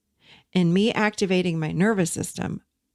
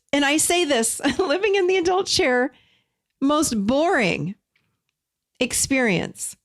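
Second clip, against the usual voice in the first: laughing through the words, pitched higher; 7 semitones higher than usual. Real, not acted. Host laughing at her own boring calm story, laughing. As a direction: giggle it out at herself.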